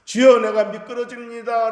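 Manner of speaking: high, loud cry of "Lord, I'm slipping"; screaming for help. Retold or imitated. Preacher voicing the psalmist's scream to the Lord, high and loud. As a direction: shout it like a man losing his footing. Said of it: "비명을 지를 때".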